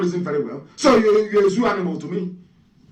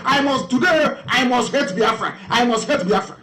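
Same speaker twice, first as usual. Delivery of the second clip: mocking a chanted morning creed, somewhat higher; mock creed recital; 5 semitones higher than usual. Speaker mocking opponents reciting a hate creed, chanted. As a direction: recite it like a ritual pledge, mocking. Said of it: "as if they sing it as a creed every morning".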